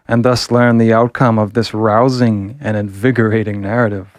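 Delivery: put-on loud old-time serial announcer, grand and overblown; melodramatic announcer. Reading the next-episode teaser aloud to viewers, booming melodramatic announcer. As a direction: proclaim it like a Victorian penny-dreadful teaser. Reads the comic's stinger.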